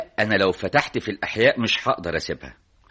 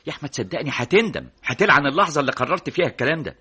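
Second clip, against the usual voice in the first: heated, raised-pitch pleading; urgent warning; 3 semitones higher, 3 dB louder than usual. Acted. Friend warning he will regret it, urgent. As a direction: warn him insistently. Friend warns against rash sacrifice.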